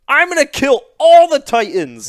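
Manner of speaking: high, loud heroic vow; mock battle cry. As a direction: yell it like a hammy anime hero. Retold Eren shouting vow.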